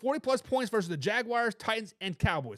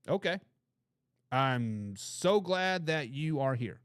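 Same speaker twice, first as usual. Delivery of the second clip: ordinary talk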